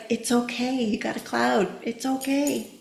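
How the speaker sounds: calm a little one down softly; soothing reassurance. Retold or imitated. Soothing upset child.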